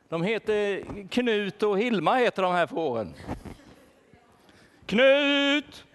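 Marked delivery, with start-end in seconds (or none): 4.9-5.9 loud call, voice pitched up. Acted. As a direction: call a lost sheep across a field. Shepherd calls lost sheep.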